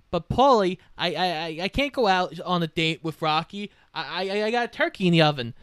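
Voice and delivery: stammering, timid protest; mock fluster, tripping over the first word; Adrian, flustered excuse. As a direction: imitate a hesitant excuse, restarting nervously. Adrian flustered, making excuses to Paulie.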